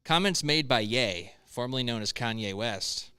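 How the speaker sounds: reading a headline and story aloud; news read. Real, not acted. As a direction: read it out like a news item, with emphatic stresses.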